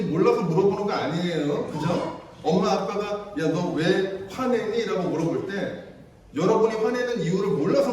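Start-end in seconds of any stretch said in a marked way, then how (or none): 3.4-4.8 parent asking. Retold or imitated. Parent asking why angry.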